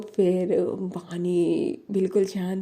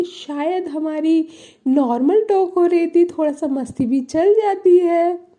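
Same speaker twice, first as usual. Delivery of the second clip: mock defensive; 8 semitones higher, 4 dB louder than usual. The speaker defends herself coolly.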